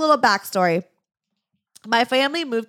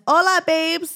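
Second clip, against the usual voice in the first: bubbly higher greeting read from a letter; reading listener greeting; 9 semitones higher, 6 dB louder than usual. Retold or imitated. Host reads out a fan's letter, greeting upbeat and high. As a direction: chirp it like a fan saying hi. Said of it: "she says".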